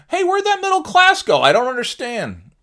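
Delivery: high, loud faux-innocent question; mock bewilderment. Real, not acted. Sarcastically asking viewers where the middle class went, high mock innocence. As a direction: play dumb in a squeaky voice.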